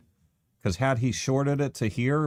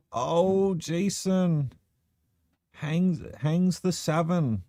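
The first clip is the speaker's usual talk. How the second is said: excited; 7 semitones higher, much slower than usual. Real, not acted. Commentator reacts to missed shot.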